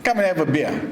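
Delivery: light imitation of a yelled greeting; mock yell. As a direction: call out to a pal, without real volume. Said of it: "Tom yells out".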